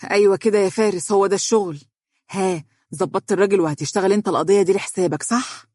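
quick, mildly excited approval; eager. Acted. Woman rushing in to colleague about the case, eager. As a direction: press eagerly for the good news. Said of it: "وقالت بلهفة".

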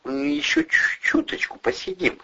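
put-on high, pleading little-kid voice; childlike plea. A narrator's reading. Eddie asking the nurse to sit up longer, childlike. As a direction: beg like a child wanting to stay up. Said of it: "попросил Эдик голосом ребёнка".

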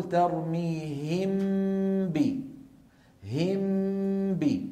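ترميهم ب said slowly, lips closed once on م and ب with nasal hum; very slow tajweed demonstration; ikhfa demo. Shown as a demonstration. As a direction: hum the م of ترميهم straight into ب without opening the lips. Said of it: "لكن لما بقول".

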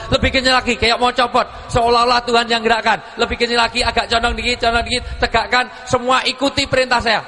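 a leader barking moves at a crowd; excited commands. Real, not acted. Leading crowd movement commands.

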